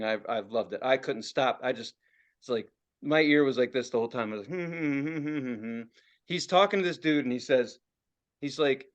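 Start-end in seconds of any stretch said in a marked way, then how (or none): 4.6-5.8 mock listening hum. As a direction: run of short, soft hums. Imitates himself listening in, fascinated.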